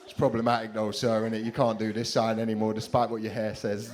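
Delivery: loud, smug backchat; mouthing off to the teacher; cheeky schoolboy. Retold or imitated. Schoolboy answering back to sir, loud and cocky.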